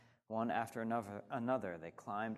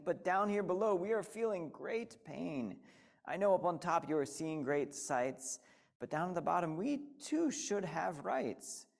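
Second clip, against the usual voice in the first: higher, pained plea; groaning little turtle; 5 semitones higher than usual. Acted. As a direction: plead through the pain. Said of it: "groaned Mac".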